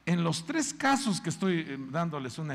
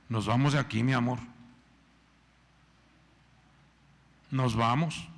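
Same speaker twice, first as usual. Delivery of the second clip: fed-up husband; 3 dB louder than usual. Retold or imitated. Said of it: "Elimelec se enojó".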